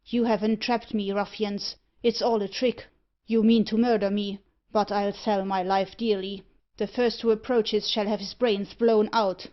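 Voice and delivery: loud, furious threat. Acted. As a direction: threaten them in a rage. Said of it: "converted his terror into fury".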